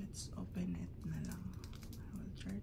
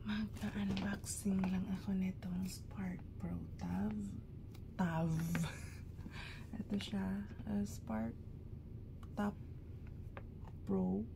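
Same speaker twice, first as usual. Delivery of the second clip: whispering so no one wakes; hushed whisper. Real, not acted. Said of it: "Kailangan ko lang mag-lower ng voice".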